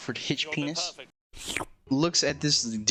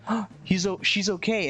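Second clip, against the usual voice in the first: higher-pitched, lightly acted surprise; mock relief; 7 semitones higher than usual. Retelling a reaction to the nurse's update, mock relief. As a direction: react with a touch of hopeful surprise.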